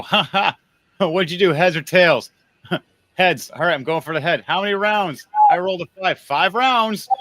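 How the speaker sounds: high, loud, playful banter with chuckles; mock gleeful laughing. Military men laughing over a coin flip, mock gleeful. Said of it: "and laugh and go".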